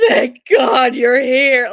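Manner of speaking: slow, loud, relieved dog voice; gasp, then cry out in relief as the dog; voicing the dog. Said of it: "he was like".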